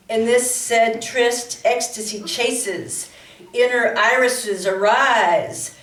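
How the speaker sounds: slow, deliberate recital with each phrase set apart; poem reading. Real, not acted. Poet reading a wedding poem for a couple, slow deliberate recital. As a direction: intone the word-play line by line, unhurried. Reads second poem aloud.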